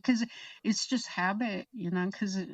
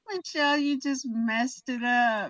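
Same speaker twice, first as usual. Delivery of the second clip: mock scolding; 4 semitones higher than usual. Driver to passenger who spoiled the take, mock scolding. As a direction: scold a friend in a playful retelling.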